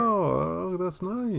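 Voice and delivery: imitating a wife, pitched high; fake-sweet, mock polite compliment. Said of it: "She's like".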